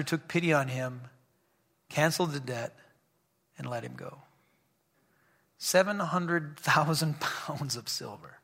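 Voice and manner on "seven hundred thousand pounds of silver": amused disbelief. Real, not acted. Marvels at the huge debt.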